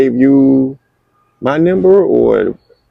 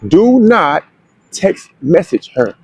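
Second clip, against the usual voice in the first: "Do not" pitched up, then "text message her" slow and spaced out; firm instruction; 4 semitones higher, slower than usual. Retold or imitated. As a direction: lay down the rule, pausing after "Do not". Retold firm instruction from friend.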